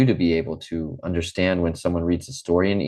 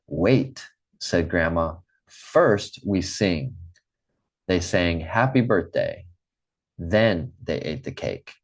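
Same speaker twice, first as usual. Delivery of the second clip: story read-aloud. Acted. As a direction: read it simply, pausing after each sentence. Reads a short story to the class.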